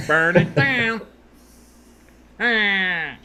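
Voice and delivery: high, raspy wrestling promo; Seth Rollins voice. Acted. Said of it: "does kinda sound like Seth Rollins".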